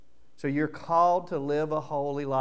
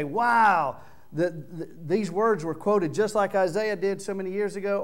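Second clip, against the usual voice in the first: mild wow; 5 semitones higher, 4 dB louder than usual. Retold or imitated. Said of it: "you can sit here and say".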